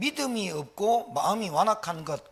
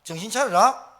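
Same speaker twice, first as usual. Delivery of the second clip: louder mock telling-off of a player; retold scolding; 3 semitones higher, 7 dB louder than usual. Pastor retells scolding his athletes, loud mock reprimand. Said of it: "야단 쳤어".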